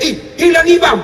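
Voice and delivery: put-on a boy's high startled cry; mock yell of a kid who finds the imam gone; startled shout. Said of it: "langsung dia teriak".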